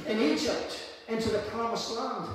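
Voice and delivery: rising, driving sermon cadence; preaching. Acted. Pastor to congregation, preaching over music. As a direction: preach it with growing fire.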